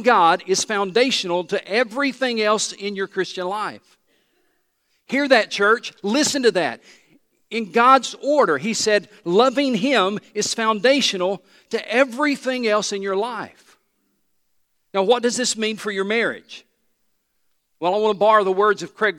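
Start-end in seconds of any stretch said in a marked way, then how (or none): 5.1-13.8 preaching emphasis. Real, not acted. Preacher pressing his point.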